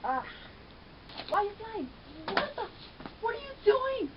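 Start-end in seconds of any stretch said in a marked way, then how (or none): 1.3-4.1 escalating shock at the screen; rising disbelief. Real, not acted. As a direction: pitch climbs higher with each question.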